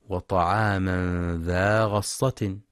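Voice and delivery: غصة with the ghain clearly in damma, ghussa; slow recited وطعاما ذا غصة with rounded u after ghain; غصة بضم الغين; correct ghussa. Shown as a demonstration. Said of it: "لضم الغين وعدم فتحها".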